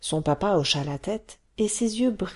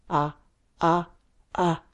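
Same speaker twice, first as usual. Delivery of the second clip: repeated ah; slower than usual. Acted. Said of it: "dit son père".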